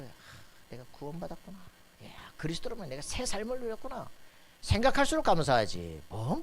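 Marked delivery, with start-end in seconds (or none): 0.0-4.1 soft start rising into higher wonder; dawning thankfulness, softly voiced at first; grateful realisation. Preacher voices a believer realising they are saved, grateful wonder.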